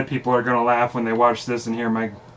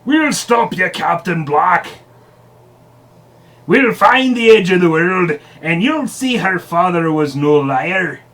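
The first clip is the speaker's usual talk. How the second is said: yelling; 4 semitones higher, 4 dB louder than usual. Acted. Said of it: "The first mate yelled out".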